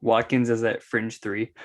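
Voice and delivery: "fringe" drawn out with emphasis; slow down and lean on "fringe"; stress on FRINGE. Real, not acted. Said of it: "Emphasis, emphasis on fringe".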